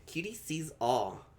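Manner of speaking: slow, drawn-out mystic chant, lightly voiced; a hint of a fortune-teller, stretched slowly; mystic oracle voice. Mystic cat oracle catchphrase.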